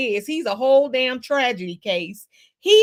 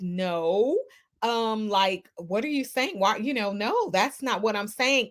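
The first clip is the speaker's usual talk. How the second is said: softer, lower mock-proper voice; Shirley trying to be proper; 4 semitones lower, 4 dB quieter than usual. Wife answering her jailed husband on the phone, mock-proper. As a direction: lightly imitate a woman being careful and proper. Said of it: "Shirley try to be pro-, proper".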